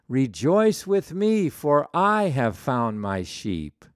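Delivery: joyful stress on "me" in "Rejoice with me". Shown as a demonstration. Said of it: "puts the emphasis of salvation on himself".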